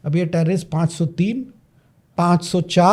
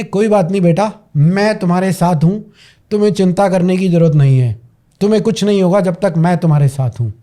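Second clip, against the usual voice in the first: steady, firm retold reassurance; strong, reassuring; faster than usual. Strong mother reassuring her child, steady and firm. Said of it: "और ये mother strong".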